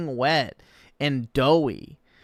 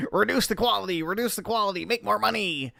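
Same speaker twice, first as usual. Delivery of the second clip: mocking the host; 5 semitones higher, 3 dB quieter, much faster than usual. Reactor mocks the host's repeated slogan, slightly higher and softer. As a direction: parrot his chant a little higher and softer. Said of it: "that's like his entire fucking content structure".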